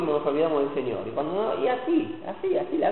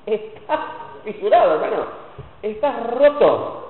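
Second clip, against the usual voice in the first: mock blunt verdict; 3 semitones higher than usual. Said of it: "¿Y qué te dice?".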